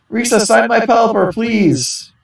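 high, pleading autograph request; eager fan plea. Acted. Fan begging Risa for an autograph, high eager plea. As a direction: beg the star to sign.

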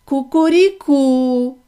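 slow, loud crowing; a rooster's slow cock-a-doodle-doo. Acted. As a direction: crow like a rooster. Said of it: "А півень додав".

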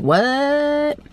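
high, stunned what; shocked what. Retold or imitated. Told of two flat tires, a high shocked what. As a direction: blurt it out in disbelief.

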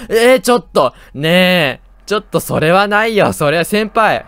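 loud, high protest at the chaser; panicked yelling. Real, not acted. Fleeing the game monster, yelling in loud protest. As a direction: yell it's not fair, running away.

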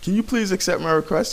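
high, whiny imitation of a fan asking; mimicking a fan. Gamer mimicking a fan who begs him to accept a friend request. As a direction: mimic a pleading fan in a squeaky voice. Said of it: "He's like".

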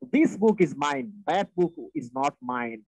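"This" and "that" punched at each start; stress on THIS and THAT. Shown as a demonstration. Teacher showing stressed pronouns in an example, stress on THIS and THAT. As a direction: lean hard on "This" and "that". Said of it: "stress দিতে হয়েছে".

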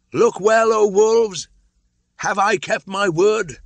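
high, loud ringing challenge; ringing call. A narrator's reading. Mowgli calling the wolves to witness, high ringing call. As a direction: demand the pack's answer.

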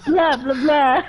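a hint of a cartoon vampire, laughing; mimicking how the friend made her sound; mock vampire. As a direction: lightly ham a vampire blah blah. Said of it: "Transylvania the vampire".

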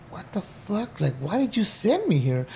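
asking God why, bewildered; hushed questioning. Retold or imitated. Believer questioning God about Folsom, hushed dismay.

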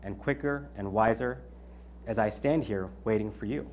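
measured, deliberate poem reading; poem recital. Acted. Speaker reciting a poem to the audience, measured delivery. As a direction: recite it line by line, letting the pauses breathe.

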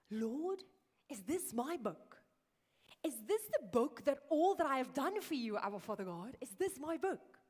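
excited pastor pleading to know. Retold or imitated. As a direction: ask God in eager disbelief, acting it out. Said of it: "Very excitedly".

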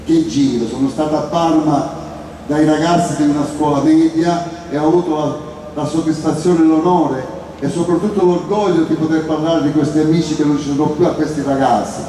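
rough, hoarse speaking voice. Real, not acted. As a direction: speak with a worn hoarse throat. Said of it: "io ho la voce rauca".

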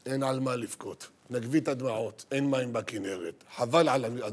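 low, soothing calm; a hint of a soothing husband. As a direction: settle her down gently. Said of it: "מרגיע אותה".

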